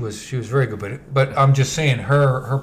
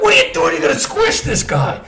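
retold alarm; 10 semitones higher than usual. Passenger to driver about to hit cyclist, high-pitched alarm. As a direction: cry out high as if watching a near miss.

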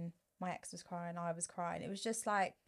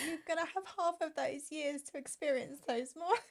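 tearful; 3 semitones higher than usual. Real, not acted. Tearfully on missing son's Christmases.

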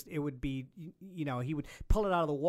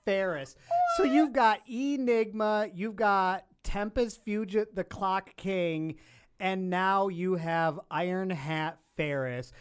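slow, louder, grandly announcing villain names; mock dramatic announcement; 2 semitones higher, 4 dB louder, slower than usual. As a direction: present each villain like a showman.

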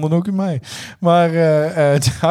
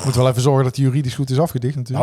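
laughing; faster than usual. Real, not acted. Jokes while laughing.

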